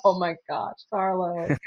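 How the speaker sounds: soft, touched sigh of a line; retold tender response. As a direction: act out melting in sympathy. Reacts tenderly to crying client.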